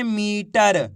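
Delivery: "मीटर" with the long ई held; drawn-out vowel. Shown as a demonstration. Teacher answers how to read the word, "मीटर" drawn out. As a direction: stretch the first vowel of "मीटर". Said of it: "खींच के पढ़ेंगे इसको".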